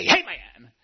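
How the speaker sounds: drawn-out congregational amen; mock revival fervor. Preacher mimics worshippers cheering the offering, mock fervor. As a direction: imitate an excited churchgoer's cheer. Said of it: "coming unglued at offering time".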